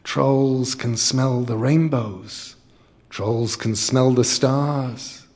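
slow, mournful troll hush; sad whisper. Acted. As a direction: whisper it sadly, slowly. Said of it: "it whispered, sadly".

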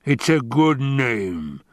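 slow, drawn-out growled retort; a touch of impatience, stretched out; impatient growl. Acted. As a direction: rumble it with restrained irritation. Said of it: "the Baron growled, and his voice betrayed his impatience".

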